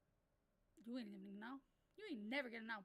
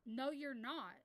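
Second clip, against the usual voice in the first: slow, deadpan denial; flat correction; much slower than usual. Retold or imitated. Moderator retells telling kid off, deadpan slow. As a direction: spell it out slowly. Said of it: "I literally go".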